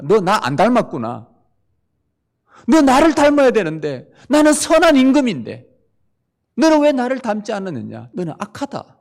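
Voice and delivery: high and loud, stern verdict; firm, stern rebuke. Acted. The Lord judging an unforgiving servant, stern and loud. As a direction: speak as the Lord, firm and unbending. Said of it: "단호하게 말합니다".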